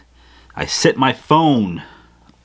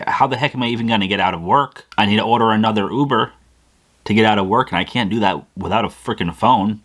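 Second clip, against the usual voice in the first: retold racing worry; faster than usual. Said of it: "My mind is racing".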